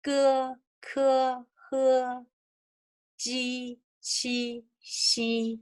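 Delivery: "ge, ke, he, ji, qi, xi" held level, one by one; demonstrating consonant sounds. Shown as a demonstration. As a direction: sound out each syllable on an even pitch. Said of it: "And the second line".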